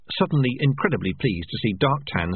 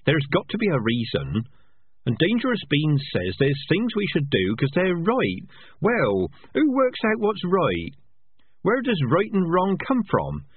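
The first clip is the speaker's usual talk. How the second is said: higher, pleading rat voice; a rat groping for big answers; earnest rat; 6 semitones higher than usual. Acted. Rat argues about right and wrong.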